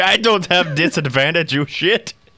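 high, drawn-out, in-character yell. Retelling another player's in-character line at Norbert: imitating someone yelling. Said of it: "She's yelling that in character at Norbert".

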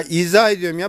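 ordinary talk

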